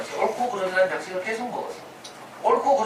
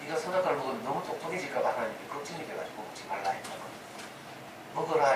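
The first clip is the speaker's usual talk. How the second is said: softer, hushed serpent coaxing; whispering serpent; 3 semitones lower, 7 dB quieter than usual. Retold or imitated. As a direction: coax them quietly like the tempter. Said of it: "이렇게 속삭이죠". (부드럽게 속삭이며 꾀는 뱀)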